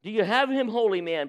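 panting. Acted. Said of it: "panted the farmer".

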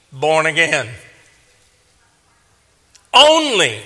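measured preaching in short punched phrases; emphatic preaching. Real, not acted. Preacher telling believers they must be born again, emphatic preaching. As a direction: punch key words, pausing between phrases.

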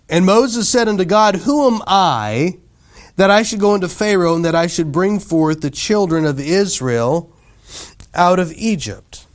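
declaimed verse, stretched phrase endings; scripture reading. Real, not acted. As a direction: read the verse out to a congregation. Reads scripture aloud to congregation.

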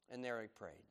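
hushed, unvoiced whisper. Real, not acted. Preacher whispering about Jesus praying alone. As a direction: breathe it out softly.

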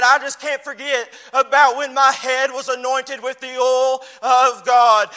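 loud, slowing at oil of God; fervent cry. Retold or imitated. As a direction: stretch the last words with feeling. David's testimony voiced.

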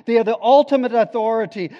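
loud, high, ringing pulpit proclamation; preached declaration. Pretend. Preacher telling the church what to say, loud proclamation. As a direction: proclaim it over the congregation with force. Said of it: "he wants us to say".

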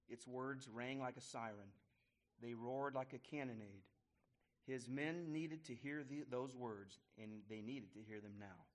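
steady, measured read-aloud storytelling; story narration. A narrator's reading. Teacher reading a Revolutionary War story to the class, measured narration. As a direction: read the tale out to the group.

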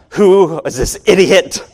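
mock angry crowd grumble; angry passenger. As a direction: play a fed-up passenger sneering at the idiot. Angry passengers waiting in line.

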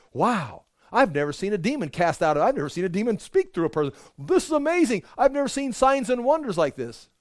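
amazed onlooker. Acted. Onlooker who saw the demon cast out, high excited gush. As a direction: gasp it out, overwhelmed by the miracle. Crowd reacting to an exorcism.

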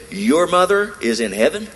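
stunned retold question; shocked disbelief. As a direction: gasp it out in astonishment. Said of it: "she was so shocked".

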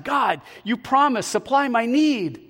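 high-pitched, mildly anguished plea; angst. Acted. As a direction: plead with God in acted angst. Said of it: "with more angst this time".

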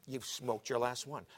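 slow, level declaration; measured pronouncement. Retold or imitated. God telling Paul to give up smoking, slow and measured. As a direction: state it slowly at ordinary volume.

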